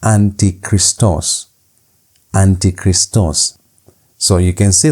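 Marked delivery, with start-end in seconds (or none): 0.0-1.5 antichristos said slowly and evenly; pronunciation demo. Shown as a demonstration. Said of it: "how do you pronounce this word". 2.3-3.6 Antichristos drawn out slowly; pronunciation demo. Shown as a demonstration. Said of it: "how do you pronounce this word".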